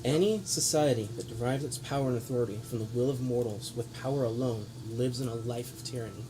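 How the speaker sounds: grave lecturing noble speech; villain monologue. Acted. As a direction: preach down at them with scorn. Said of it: "Villain monologue".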